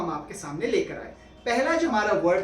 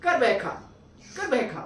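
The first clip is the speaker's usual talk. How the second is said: fast repeat. Shown as a demonstration. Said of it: "एक साथ fast में बोलने की कोशिश".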